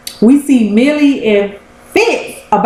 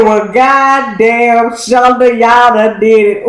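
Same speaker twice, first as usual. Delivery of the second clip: hollering at the show; slower than usual. Retold or imitated. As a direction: holler it at the screen in disbelief. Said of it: "I said".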